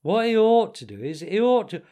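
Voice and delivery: high, loud, insistent contradiction; shouted argument. A narrator's reading. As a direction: argue over the other speaker. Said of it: "shouted the Mole".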